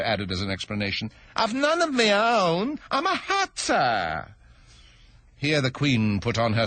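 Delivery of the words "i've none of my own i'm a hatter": high, slow stammering plea; timid hatter begging pardon; nervous hatter. Acted. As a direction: stammer it out, afraid of the king. Hatter explains.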